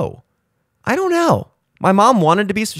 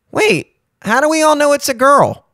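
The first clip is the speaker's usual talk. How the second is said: confused mom; 10 semitones higher than usual. Retold or imitated. Confused mom after reveal.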